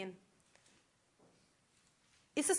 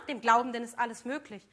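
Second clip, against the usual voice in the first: a mildly louder, goading tempter's line; 5 dB louder than usual. Acted. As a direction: egg him on like the tempter. Tempter's voice quoting scripture. (leicht lauter, verführerisch drängender Versucher)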